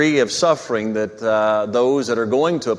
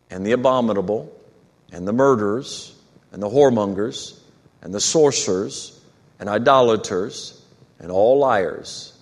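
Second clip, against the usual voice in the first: measured reading with long pauses between phrases; formal Bible reading, letting each phrase stand alone; solemn scripture reading. Acted. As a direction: read it out weightily, phrase by phrase. Reads scripture aloud to congregation.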